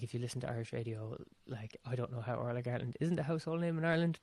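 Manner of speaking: normal talking voice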